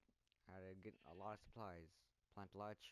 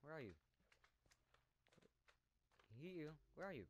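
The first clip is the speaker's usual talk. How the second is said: calling out; 7 semitones higher than usual. Real, not acted. Calling out to find animal.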